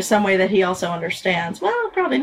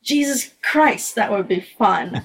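"Jesus Christ" pitched up and stretched out, then the rest at normal pitch; strongly punctuated. Retold or imitated. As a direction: chew on "Jesus Christ" slowly. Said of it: "he also punctuates it really strongly".

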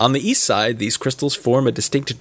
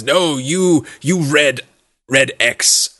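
lightly voiced giant, insisting; arguing giant; 2 semitones higher, slower than usual. Game master plays the other giant disputing the rocks, mildly argumentative. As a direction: push back like a simple-minded giant, mildly. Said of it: "and the other one says".

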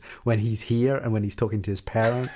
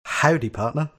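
tentative copy of an American accent, pitched higher; attempted American accent; 4 semitones higher than usual. Shown as a demonstration. The speaker repeats after his mock dialogue coach, attempted American accent. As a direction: have a go at an American "howdy". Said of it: "James, repeat after me".

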